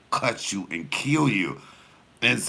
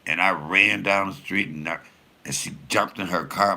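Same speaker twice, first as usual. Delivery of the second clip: usual speaking voice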